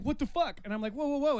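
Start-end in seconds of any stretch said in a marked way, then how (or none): 0.0-0.6 much higher mock exclamation; imitated shocked outrage. Man voicing her shock at the breakup, high-pitched outrage. Voices the woman's shocked reply. 0.9-1.4 high, louder string of protests; retold alarm. Man retelling his reply to her outburst, high alarmed protest.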